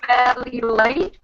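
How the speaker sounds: slow, garbled call audio; distorted, like a robot on a bad line. Real, not acted. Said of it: "she says she's fairly late".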